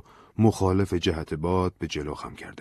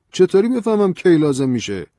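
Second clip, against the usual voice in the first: anxious; 12 semitones higher, 10 dB louder than usual. Acted. Anxious question, much higher.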